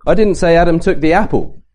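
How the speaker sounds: "apple" stressed; emphasis on "apple" to question what he took. Shown as a demonstration. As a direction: land on "apple" as if he took something else. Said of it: "what did he take then?".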